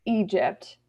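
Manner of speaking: normal talking voice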